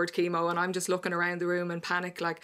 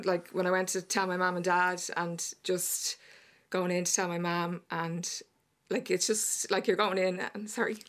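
halting, on the verge of tears; real upset breaking up the sentence; getting emotional. Real, not acted. Guest telling of going in to tell her mum, getting emotional. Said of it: "sorry because I'm getting emotional".

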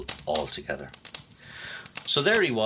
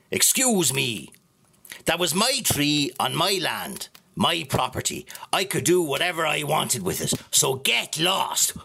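mildly annoyed; 5 semitones higher than usual. Acted. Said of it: "got a bit annoyed".

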